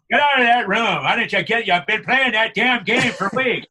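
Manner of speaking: loud, high scolding from a fed-up dad; mock parent roaring through the door; angry parent yelling. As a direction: bellow at the kid to get out of his room. Parent yelling at gaming kid.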